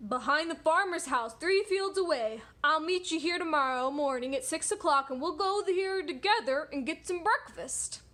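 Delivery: lightly voiced story wolf; wolf character. Wolf inviting the pig to breakfast, lightly voiced wolf. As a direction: play the scheming wolf making a plan. Wolf answers the pig's question.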